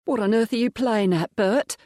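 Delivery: a maid standing up to a thug; indignant demand. Acted. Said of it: "Agnes demanded".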